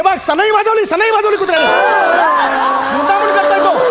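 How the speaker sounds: outraged shout. Acted. Father outraged at dog's noises.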